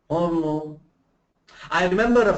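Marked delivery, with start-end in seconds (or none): 0.1-0.8 mumbled with a barely open mouth; mumbled demo of unclear speech. Shown as a demonstration. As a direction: swallow the words, lips nearly shut. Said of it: "The word can be mumbled like that".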